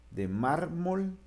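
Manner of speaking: drawn out to show the syllable break in mármol; slow syllables. Shown as a demonstration. Teacher to class, slowly stretching the word mármol. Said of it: "se separa de la siguiente".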